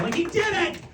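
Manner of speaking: high, soft exclamation; mock congratulation. Mock applause for his accomplishment.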